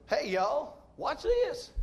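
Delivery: a hint of a cocky redneck, pitch jumping high; redneck's last words. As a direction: toss it off like a show-off about to fall. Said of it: "the famous last words of a redneck".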